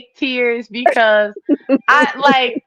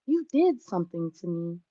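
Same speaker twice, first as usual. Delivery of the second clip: put-on 1 sad little boy; 5 semitones lower, 10 dB quieter than usual. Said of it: "He's like".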